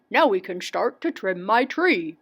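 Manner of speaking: mild storybook glee; gleeful cry. A narrator's reading. Willoughby can start trimming, mildly gleeful. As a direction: say it with a touch of delight. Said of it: "cried with glee".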